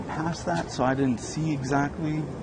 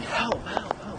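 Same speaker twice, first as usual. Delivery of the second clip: mild mock yell; 7 semitones higher, slower than usual. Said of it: "I kept yelling".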